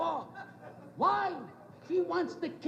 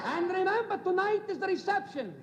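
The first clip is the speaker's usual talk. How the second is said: put-on raised, emphatic Italian-accented papa; higher-pitched Italian papa's reminder; Italian father's accent; 4 semitones higher than usual. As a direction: lightly mimic an Italian father giving orders. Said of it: "He says".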